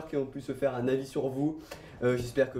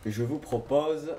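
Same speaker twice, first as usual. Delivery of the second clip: Marseille accent; much slower than usual. Real, not acted. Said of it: "pourquoi tu prends un accent marseillais quand tu dis".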